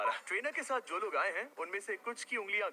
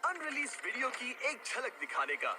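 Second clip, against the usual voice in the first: energetic host hyping a preview; announcer promo; 4 semitones higher than usual. Acted. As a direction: build excitement like a big reveal. Presents unreleased video preview. (जोशीले host का अंदाज़)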